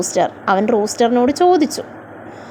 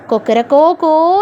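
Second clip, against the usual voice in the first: rooster's crow; 3 semitones higher than usual. Shown as a demonstration. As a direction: mimic a crowing rooster, half spoken. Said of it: "എന്താ നമ്മുടെ rooster പാടുന്നത്". (പൂവൻ കോഴി കൂവുന്നത് ചെറുതായി അനുകരിച്ച്)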